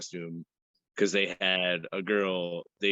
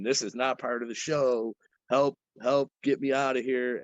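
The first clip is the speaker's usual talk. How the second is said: mock panicked scream; 4 semitones higher than usual. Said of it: "The girl is screaming".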